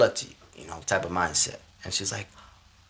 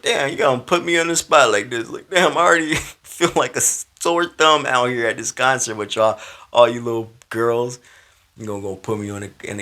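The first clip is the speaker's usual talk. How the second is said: louder, higher comic complaint; mock exasperation; 4 semitones higher, 4 dB louder than usual. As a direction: protest being put on the spot. Acts his annoyed reaction to girl.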